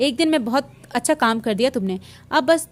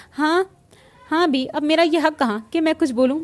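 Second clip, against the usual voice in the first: a hint of a sulking wife, slightly higher; mock hurt sulk; 4 semitones higher than usual. Friend hams up being offended at his roommate, mildly raised. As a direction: pretend to be offended, half-joking. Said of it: "नाराज़ होने की अदाकारी करते हुए बोला".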